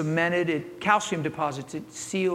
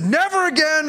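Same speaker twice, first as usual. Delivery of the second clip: exclaiming; 9 semitones higher, 6 dB louder than usual. Retold or imitated. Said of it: "grabbed her wrist and said".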